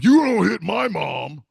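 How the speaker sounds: slow, loud warning shout; dad yelling at grandma to defend mom. Acted. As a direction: bark it out, protecting his mom.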